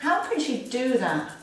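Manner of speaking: mild anger. Shown as a demonstration. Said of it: "Under the nose".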